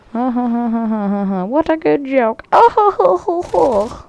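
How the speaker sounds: high, hammed-up ha-ha-ho-ho; fake laughter. Gamer mocking his borrowed joke, fake laughter.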